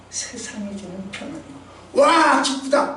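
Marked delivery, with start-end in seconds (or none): 1.9-3.0 high, loud burst of delight, quickly fading; imitated joy. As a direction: mimic a short-lived cheer. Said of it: "했지만".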